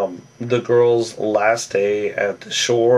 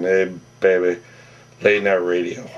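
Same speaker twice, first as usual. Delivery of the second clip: lower, smooth late-night radio voice; a soul singer; 4 semitones lower than usual. Retold or imitated. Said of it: "Doing my soul singer impression".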